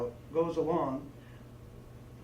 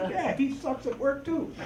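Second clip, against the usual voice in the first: laughing mock reply; 8 semitones higher than usual. Joking imagined reply, laughing.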